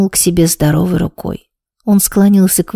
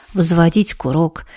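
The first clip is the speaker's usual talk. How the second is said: plain reading voice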